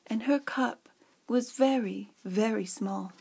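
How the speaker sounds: storybook reading with dramatic emphasis; dramatic flair. Acted. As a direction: read it with a theatrical storyteller's flair. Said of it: "How was that for dramatic flair?".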